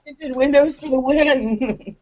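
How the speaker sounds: high, slow triumphant exclamation; gleeful cheer. Real, not acted. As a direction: draw it out like a victory call. Player cheers the matching car detail.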